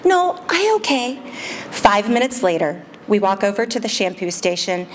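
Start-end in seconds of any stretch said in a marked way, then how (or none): 0.0-1.2 put-on high, slow little girl voice; a small child answering slowly; toddler voice.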